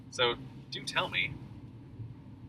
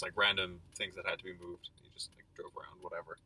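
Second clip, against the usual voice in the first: whispering; 6 semitones lower, 8 dB quieter than usual. Real, not acted. Trailing whispered question.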